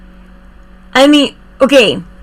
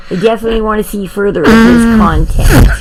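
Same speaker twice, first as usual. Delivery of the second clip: being shaken; faster than usual. Real, not acted. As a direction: voice jostled while being shaken. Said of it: "you're shaking me".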